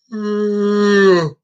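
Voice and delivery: big tired yawn sound. Real, not acted. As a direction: let out a long yawn. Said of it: "I hate yawning".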